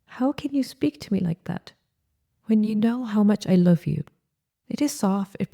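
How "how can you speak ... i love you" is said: a lightly voiced wounded appeal to your husband; brokenheartedly. Shown as a demonstration. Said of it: "You can say brokenheartedly".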